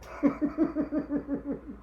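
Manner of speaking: high rapid run of chuckles; long, high staccato giggle; giggling. Real, not acted. Streamer amused by their own Washington bill story, giggling.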